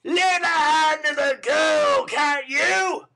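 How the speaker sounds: loud, high, slow angry demand; Sikes's impatient shout. Acted. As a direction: bark the order. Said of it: "Sikes impatiently".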